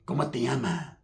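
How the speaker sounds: low, soft spun-out imitation; crazy paisa. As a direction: drop low and quiet like a crazy stranger. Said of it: "he sounds all crazy".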